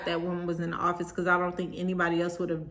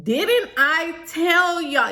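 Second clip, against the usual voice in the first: slow, high, emphatic scolding; retold angry yelling; 7 semitones higher, 4 dB louder, much slower than usual. Bride yelling at everybody in the room, retold pissed-off scolding. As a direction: re-enact yelling at them, spacing out each word. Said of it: "I'm yelling at everybody in the room".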